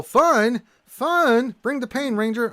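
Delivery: high, loud rallying cry; hyped-up cheer. Acted. Host reading a viewer's message to Ranger, hyped up and shouting.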